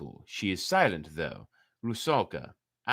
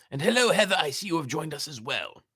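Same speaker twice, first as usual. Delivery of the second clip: high, louder hello; bright greeting; 7 semitones higher, 3 dB louder than usual. Real, not acted. The reader greets Heather, who just joined, with a bright lift. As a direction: greet a newcomer with a sudden lift.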